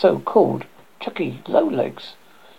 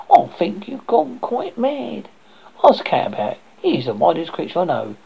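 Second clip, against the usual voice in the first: fussy hen voice. Acted. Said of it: "said the hen".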